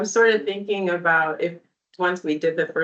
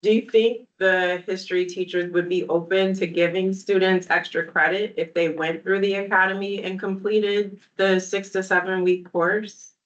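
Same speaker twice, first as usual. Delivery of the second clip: talking while chewing; words round a bite of food; mouth full. Real, not acted. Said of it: "I'm sorry for talking with my mouth full".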